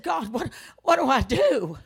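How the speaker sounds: loud, urgent plea to God; retold desperate plea. Daughter asks God about her mother, desperate plea. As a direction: cry out for an answer, pleading.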